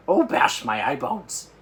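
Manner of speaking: slow, loud distressed cry. Acted. Giant despairs at the nightmare he caught. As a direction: drag it out in despair. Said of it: "he cried".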